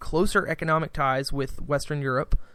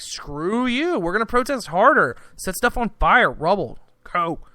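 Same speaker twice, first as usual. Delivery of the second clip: mock defiant protesters; 4 semitones higher than usual. Protesters rejecting the government's offer, hammed-up defiance. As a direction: sneer it back like an angry crowd. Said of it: "And they're like".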